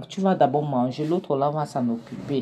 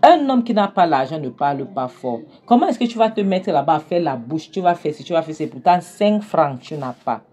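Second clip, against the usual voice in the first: angry lecture; 2 semitones higher, 5 dB louder than usual. Acted. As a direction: lecture him loudly with contempt. Kenny lectures a broke man.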